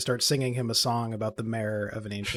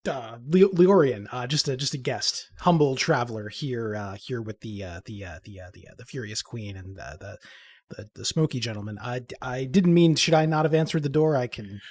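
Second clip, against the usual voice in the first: flustered stammer. Acted. Humble guest explaining himself at the door, flustered. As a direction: stumble over your words, trailing into a mumble.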